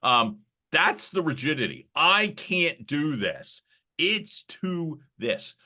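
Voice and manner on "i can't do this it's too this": high, slow whining self-doubt; whiny excuses. Retold or imitated. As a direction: whine like a nervous beginner. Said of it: "all the rationalizations".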